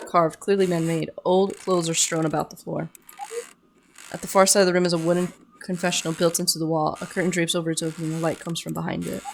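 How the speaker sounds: quick, even scene-setting read; story narration. Acted. Player reading the cave scene aloud, story narration. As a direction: read the scene out briskly and softly.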